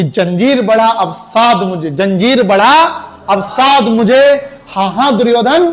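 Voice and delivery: slow, declaiming Dinkar's lines with a tired throat; dramatic poem recitation. Shown as a demonstration. Teacher reciting Rashmirathi to class, slow heroic declaiming. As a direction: recite it like a hero defying Duryodhana. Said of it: "गला बैठ गया, वरना और तगड़े सुनाते".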